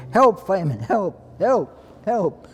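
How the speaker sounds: high, loud mock cries; imitated screaming for help. Trapped prisoners begging firemen for rescue, imitated yelling. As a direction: call out high, punching the first cry. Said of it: "they were screaming and yelling".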